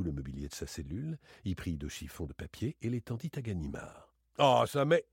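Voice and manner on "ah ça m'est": surprised exclaim. A narrator's reading. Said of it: "s'écria celui-ci".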